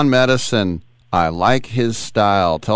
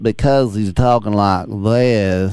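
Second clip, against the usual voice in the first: slow, stretched imitation of a Southern drawl; thick Southern drawl; slower than usual. Interviewer imitating a man he interviewed, thick Southern drawl. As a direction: draw the words out in a mock Southern accent. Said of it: "had the thickest Southern drawl".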